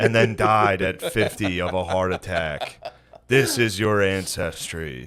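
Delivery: slow, measured, grave pronouncement; mock-solemn elder. Joining the parody of an ancestry letter, slow mock solemnity. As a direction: intone it like sacred family lore.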